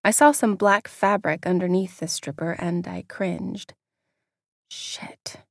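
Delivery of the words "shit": hushed unvoiced whisper. A narrator's reading. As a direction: breathe it out in a whisper. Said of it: "I whispered this time".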